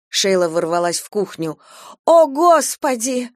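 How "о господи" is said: loud, high, slow cry; raised voice. A narrator's reading. Stepmother cries out at the bleeding boy, loud and slow. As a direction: cry out in shock at the blood. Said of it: "Она повысила голос".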